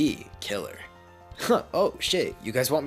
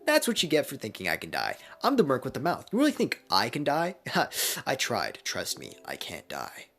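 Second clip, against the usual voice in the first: louder, higher cocky gloat; gloating taunt; 7 semitones higher, 7 dB louder than usual. Acted. Deadpool revived, taunting the shocked class loudly. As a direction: rub it in their faces.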